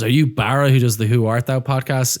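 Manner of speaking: lightly imitated American accent. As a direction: put on a touch of American. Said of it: "in a, an American accent".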